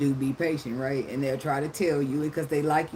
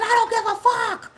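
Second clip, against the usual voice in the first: high, loud, don't-care snap back; defiant retort; 4 dB louder than usual. Retold or imitated. Retelling what she told her bleeding boyfriend, defiant and loud. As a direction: throw it back at him, unbothered.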